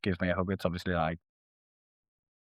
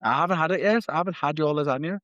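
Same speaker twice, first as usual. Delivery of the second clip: suggestive tease; 6 semitones higher, 3 dB louder than usual. Pretend. Suggestive teasing about lasagna.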